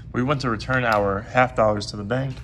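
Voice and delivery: slightly hoarse, voice going; losing voice. Real, not acted. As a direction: talk through a tired, fading voice. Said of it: "As I'm losing my voice here".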